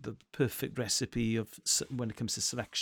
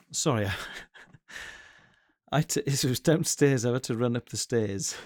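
panting after running upstairs; puffing between words; out of breath. Real, not acted. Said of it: "now I'm out of breath".

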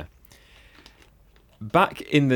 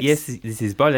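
put-on higher French-accented phone voice; mock French accent; 4 semitones higher than usual. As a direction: play a silly French character answering a call. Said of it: "bits of French got added in".

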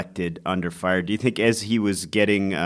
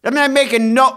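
indignant; 13 semitones higher, 5 dB louder, faster than usual. Real, not acted. Defensive outburst continues.

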